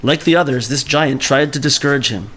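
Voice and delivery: steady storytelling read-aloud; story reading. Acted. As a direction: read the tale to the class.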